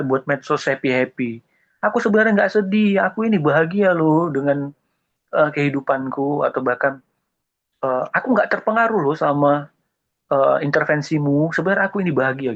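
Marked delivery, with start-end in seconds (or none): 1.8-6.5 mock cheerful denial. Mocking fake-happy social media. 8.1-12.5 mock breezy denial. Mocking fake-happy denial.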